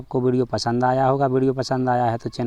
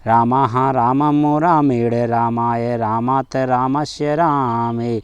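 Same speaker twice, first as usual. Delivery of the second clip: quicker run through the forms; faster; much slower than usual. Shown as a demonstration. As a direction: rattle the forms off briskly. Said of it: "फिर कितने भी जल्दी बोल सकते हैं". (जल्दी जल्दी बोलना)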